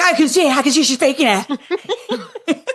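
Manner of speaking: high, drawn-out troll voice; high-pitched mock accusation with a laugh. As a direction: imitate an online troll, laughing through it. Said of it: "Do the troll voice".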